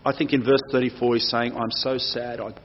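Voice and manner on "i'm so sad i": Dennis speak. Retold or imitated. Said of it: "in Dennis speak".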